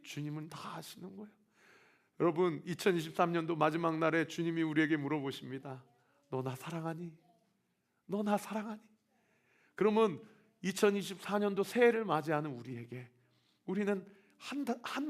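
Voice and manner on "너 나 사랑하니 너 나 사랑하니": tender question. Retold or imitated. Jesus asks the congregation.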